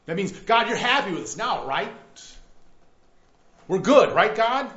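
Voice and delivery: lightly voiced smug worshipper; a hint of self-satisfied pleading; mock smugness. People boast to God, mildly smug and mock-pleading. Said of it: "he just mocks them".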